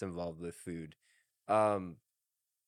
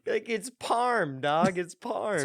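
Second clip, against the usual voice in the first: put-on Australian accent; 8 semitones higher, 4 dB louder, slower than usual. Mock Aussie insisting.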